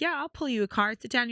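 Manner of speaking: imitating the tarot man's American voice; American accent. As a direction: offer the reading, easy and friendly. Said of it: "we're doing the accents".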